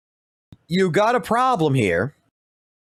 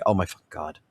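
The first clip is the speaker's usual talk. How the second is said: low, soft groaned oh my God; mock despairing groan; 11 semitones lower, 5 dB quieter, faster than usual. Player mocking burnt-out grinders, low despairing groan. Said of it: "They're looking at it like".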